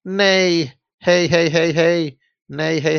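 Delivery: a high whinnying neigh spoken out; playful horse whinny; pony neigh. Acted. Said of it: "but she neighed instead".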